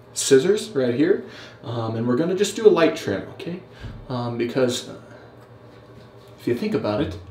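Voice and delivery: deliberate how-to voiceover, lilting up and down; Jack Malacco impression. Vlogger mimics another beard YouTuber narrating his trim, hammed-up impression. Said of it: "This is my impression of Jack Malacco trimming his beard".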